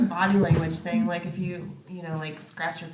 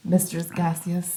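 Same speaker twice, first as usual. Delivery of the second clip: slow grand title; much slower than usual. Pretend.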